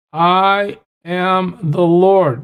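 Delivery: "I am the Lord" drawn out very slowly, each word weighted; slow emphatic declaration. Shown as a demonstration. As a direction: stretch out "I am the Lord" to hammer it home. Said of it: "He keeps emphasizing this to us".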